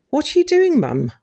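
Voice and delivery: high startled cry of alarm; alarmed shout. Retold or imitated. Catching Mum with scissors.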